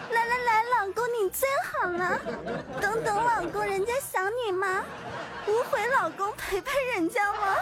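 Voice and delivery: put-on sugary whiny baby talk; cutesy whiny pleading. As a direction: whine sweetly like a clingy girlfriend. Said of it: "撒娇二十连".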